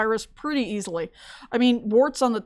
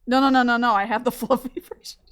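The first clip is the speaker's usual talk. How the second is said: laughing correction. Retold or imitated. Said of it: "and I'm like".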